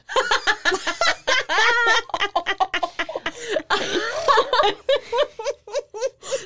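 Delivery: squealing, near-crying laughter; long high laugh. Real, not acted. Host cracking up at her own accent question, squealing laughter.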